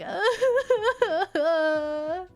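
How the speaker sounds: high wailing sob sound; imitated sob, half laughing; mock crying wail. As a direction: fake a crying wail for comedy. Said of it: "he's crying".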